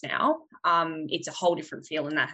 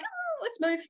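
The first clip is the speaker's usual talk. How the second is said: mock panic; 5 dB quieter, slower than usual. Panics at a bug.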